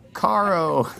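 Caro with a weak, faked rolled R, laughing. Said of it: "I try to fake it".

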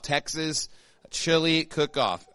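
"Texas" set apart and stressed, slow "Chili Cook-Off"; emphasis on Texas. Real, not acted. Pastor announcing the church cook-off, emphasis on "Texas". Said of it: "Emphasis on Texas".

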